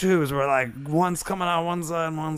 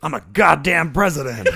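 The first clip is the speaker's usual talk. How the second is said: laughing quote; 6 dB louder than usual. Shown as a demonstration. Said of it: "repeat line, laughing".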